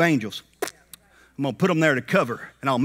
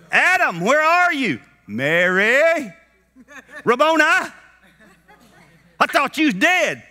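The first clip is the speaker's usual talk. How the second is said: crying out; 8 semitones higher than usual. Acted. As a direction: call out in distress. Mary crying out.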